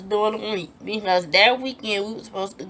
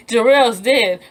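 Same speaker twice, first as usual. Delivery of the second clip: loud imitation of a giggling caller; 6 semitones higher, 8 dB louder, slower than usual. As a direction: break into a mock laugh after the words. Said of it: "Laughing and giggling on the phone like it's funny".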